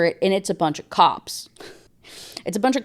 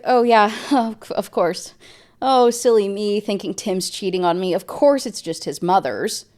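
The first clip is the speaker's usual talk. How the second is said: sarcastic; 2 semitones higher than usual. Retold or imitated. Sarcastic fake agreement.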